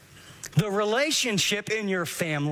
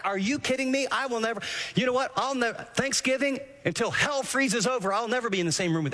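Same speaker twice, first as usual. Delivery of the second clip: raised-pitch, worked-up protest; indignant rant; 4 semitones higher than usual. Acted. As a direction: play the wronged one who won't let it go. Imagined inner rant of hurt person.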